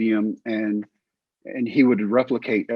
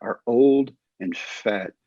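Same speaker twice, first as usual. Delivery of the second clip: inner self-reproach; 2 semitones higher, much slower than usual. Retold or imitated. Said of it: "I was thinking".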